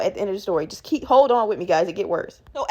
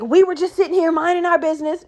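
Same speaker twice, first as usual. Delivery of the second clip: high-pitched retold complaint; mock shouting; 5 semitones higher than usual. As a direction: imitate an aggrieved mom, higher voice. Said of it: "is shouting and explaining it".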